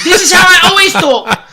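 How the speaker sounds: high, mock-posh insistence; put-on posh voice. Answering a co-host, in a mock posh voice. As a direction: keep the silly voice going, pretending it's normal. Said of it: "Why are you speaking like that?".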